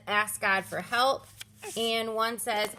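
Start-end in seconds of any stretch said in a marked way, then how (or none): 0.1-1.3 slow card read. Shown as a demonstration.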